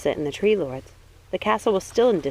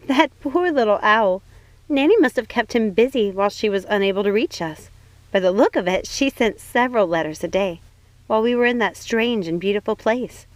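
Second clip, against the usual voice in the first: a higher, bright-eyed princess voice; Snow White, light and eager; 4 semitones higher, 3 dB louder than usual. Acted. Snow White reassuring her cousin, higher princess voice. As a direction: lift the voice for young Snow White.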